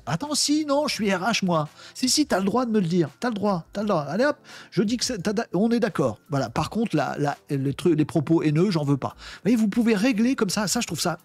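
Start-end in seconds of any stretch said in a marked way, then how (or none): 0.1-6.2 voix d'agent un peu plus aiguë, hésitante puis décidée; agent RH qui se ravise. Acted. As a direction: jouer le bot qui change d'avis en cours de route. Le bot RH se ravise. (un petit agent RH joué légèrement, aigu, qui se corrige)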